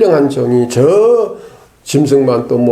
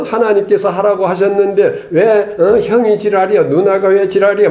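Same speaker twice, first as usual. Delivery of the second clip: higher-pitched, mock indignant protest; mock hot-tempered quarrel; 6 semitones higher than usual. Preacher imagining Moses fighting brother and sister, mock angry. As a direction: act out a squabble with siblings. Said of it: "거기서 막 혈기 부리고 막".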